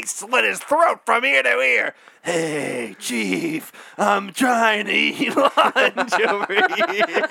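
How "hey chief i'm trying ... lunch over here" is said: deadpan cop voice. Retold or imitated. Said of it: "I'll do this time for you".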